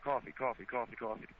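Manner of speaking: COFFEE rattled off four times as cawfee; quick cawfee chain, no w; several times fast. Shown as a demonstration. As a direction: repeat coffee in a quick even run. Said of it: "Say it several times fast like that".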